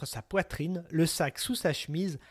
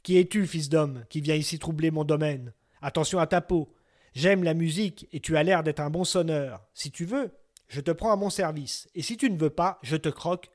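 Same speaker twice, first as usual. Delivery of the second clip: booming, louder giant's threat; roaring giant; 3 dB louder than usual. Acted. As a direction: loom over the little piper and threaten him. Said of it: "un rugissement formidable ébranla les arbres".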